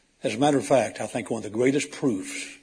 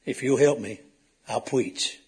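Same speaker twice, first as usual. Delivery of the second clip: imitating a stammer; slower than usual. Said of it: "I said".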